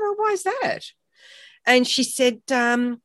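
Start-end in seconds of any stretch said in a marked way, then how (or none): 0.0-0.8 mock innocent. Retold innocent reply to friend.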